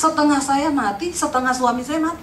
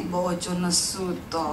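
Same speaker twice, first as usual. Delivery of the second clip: husband's complaint; 9 semitones lower, 9 dB quieter, slower than usual. Retold or imitated. Husband voiced in quarrel story.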